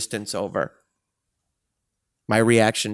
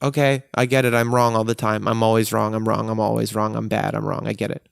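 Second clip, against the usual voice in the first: numb resignation. Retold or imitated. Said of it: "you just numb out to it".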